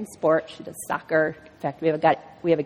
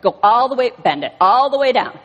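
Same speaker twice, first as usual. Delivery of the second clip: firm doctor command; 3 semitones higher, 4 dB louder than usual. Retold or imitated. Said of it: "he's like".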